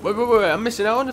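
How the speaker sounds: high, loud burst of waits; urgent interruption. Real, not acted. Player noticing missed coins, urgent high outburst. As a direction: blurt it high and loud to stop everything.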